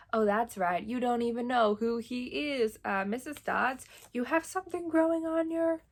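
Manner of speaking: mock taunt, stretching "who he is"; same mimicked timing. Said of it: "the same timing as".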